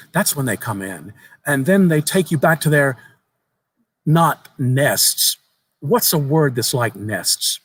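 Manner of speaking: lightly voiced young boy. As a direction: tell it like an eager child sharing a secret. Boy describes monsters.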